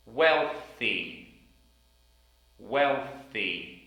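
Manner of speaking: Wealthy with blown th; Wealthy, th clear; careful th in wealthy. Shown as a demonstration. Teacher drilling the word Wealthy. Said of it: "T H sound in the middle".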